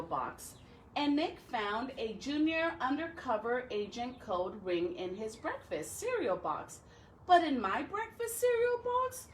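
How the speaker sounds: put-on reading a picture book to children; story reading. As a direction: tell Alexander's gloomy day to kids.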